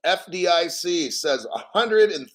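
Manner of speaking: interrupted by a hiccup; speaking through hiccups. Real, not acted. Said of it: "excuse me, I'm hiccuping".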